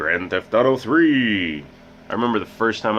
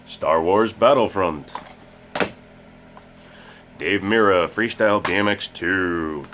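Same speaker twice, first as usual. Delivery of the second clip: odd put-on voice. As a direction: read the titles like a mock announcer. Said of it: "I don't know why I'm talking like this".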